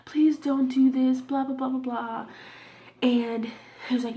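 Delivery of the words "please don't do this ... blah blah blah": retold plea, slow at first; begging. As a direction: imitate yourself pleading, trailing into blahs. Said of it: "I'm, like, begging him".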